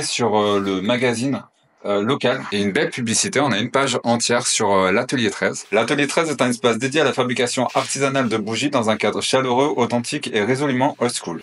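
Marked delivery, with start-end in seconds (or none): 5.7-11.4 steady promotional reading. Real, not acted. Reading the magazine advert aloud, ad read. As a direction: read the ad copy.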